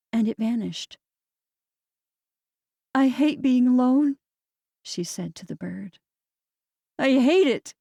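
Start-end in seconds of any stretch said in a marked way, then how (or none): 2.9-7.7 anguished. A narrator's reading. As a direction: let the pain break through. Confesses grief to bird.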